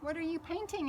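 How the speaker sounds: little Bo. Acted. Bo, little cousin, asks Gracie.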